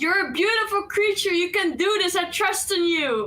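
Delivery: high, loud yelled delivery. Encouraging the Hydra in the game: yelling encouragement at the Hydra. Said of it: "I'm going to yell".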